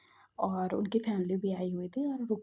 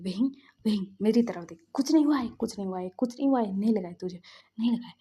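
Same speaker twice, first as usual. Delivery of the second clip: insistent, repeated comforting; acting out someone calming a friend in panic; emphatic soothing in short bursts; urgent reassurance; 4 dB louder, faster than usual. Frantic friend reassures the panicking one.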